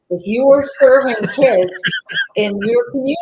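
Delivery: loud, high, impassioned argument; emphatic rebuttal. Retold or imitated. Arguing back at clergy who say they have no kids, emphatic. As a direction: raise your voice to drive the point home.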